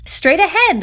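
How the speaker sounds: high, eager shout of directions; cried out excitedly. A narrator's reading. Frogs calling directions to the chicken, high and eager. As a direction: point the way with glee. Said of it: "the frogs cried out excitedly".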